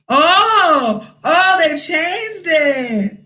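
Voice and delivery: slow realization, surprised. Real, not acted. Realizes the bonus changed.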